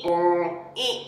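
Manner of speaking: donkey bray. Shown as a demonstration. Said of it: "Can you do a donkey noise?".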